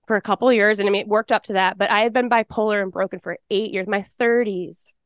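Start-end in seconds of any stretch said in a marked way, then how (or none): 3.9-4.9 slow lament. Real, not acted. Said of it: "mournful repetition".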